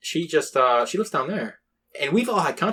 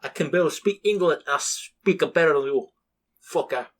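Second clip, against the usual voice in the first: yelling Russian; 4 semitones higher than usual. Retold or imitated. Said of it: "the Russian one yelling at him".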